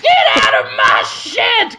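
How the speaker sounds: loud, high, hammed-up shouting caricature; Shigeru Miyamoto. Comedian playing a game designer guarding his shed, mock shouting. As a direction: yell it in a put-on screechy voice. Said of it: "He'll go".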